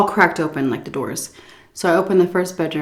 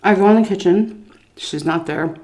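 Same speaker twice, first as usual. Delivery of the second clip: mouth full. Real, not acted. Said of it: "I'm gonna be talking with my mouth full".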